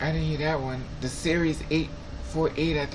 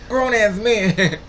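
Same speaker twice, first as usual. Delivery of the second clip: laughing through words; 5 semitones higher, 8 dB louder, much slower than usual. Retold or imitated. Laughing while quoting him.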